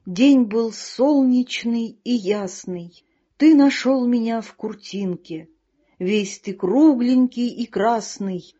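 slow, solemn verse reading; poem recital. Acted. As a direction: recite it like a proud poet, slowly. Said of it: "я прочту вам моё стихотворение". (медленное торжественное чтение стихов)

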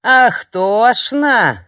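drawn-out, loud, high mocking "Ах, тошно"; old crone mocking her guest; mocking echo. A narrator's reading. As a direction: throw her word back at her, very slowly. Crone mocks the word.

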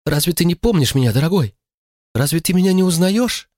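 high, tearful pleading woman's voice; pleading mother. A narrator's reading. Mother pleading with Walter to remember her, high and tearful. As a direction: beg him to recognise her, pitched high.

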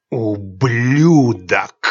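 slow seething hiss of an insult; cold fury. Acted. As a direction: spit it out slowly with venom. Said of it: "прошипел Аклест".

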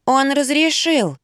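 put-on high, slow boyish reply; child's voice. A narrator's reading. A lightly voiced boy tells his mother. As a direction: explain it like a little boy.

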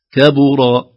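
loud "كبر" opening on thin "ke"; light kāf. Shown as a demonstration. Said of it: "نرقق الكاف". («كبر» بترقيق الكاف)

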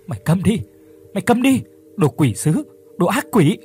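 Phước screams at the voice in his head to leave; furious shout. Acted. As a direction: drive the demon away, yelling.

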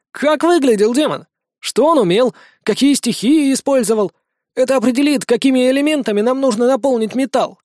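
high squeaky little gnome. Acted. Tiny gnome voice.

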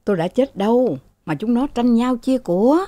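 mildly acted indignant wail; groaning complaint. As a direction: groan in dismay at the children. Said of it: "Thừa rên lên".

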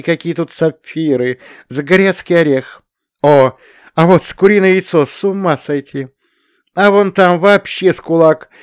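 high, loud enthusiastic listing of gems; ecstatic exclaiming. A narrator's reading. Shura shows Belsky the crystals, loud, high and thrilled. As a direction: gush over every crystal like a kid. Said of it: "воинственно воскликнул Шура".

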